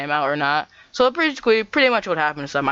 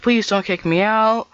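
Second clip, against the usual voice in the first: high, slow mock plea; pleading; 6 semitones higher, 4 dB louder, slower than usual. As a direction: beg in a put-on, drawn-out voice. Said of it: "she's like".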